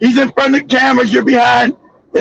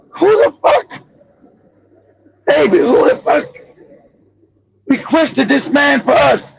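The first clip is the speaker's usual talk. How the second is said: outraged grieving father. Retold or imitated. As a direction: hiss it to the wife in disbelief. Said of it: "And he turned to your wife".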